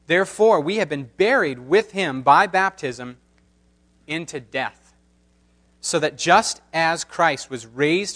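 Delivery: measured, solemn reading of scripture. Acted. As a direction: read the passage with reverent weight. Formal scripture reading aloud.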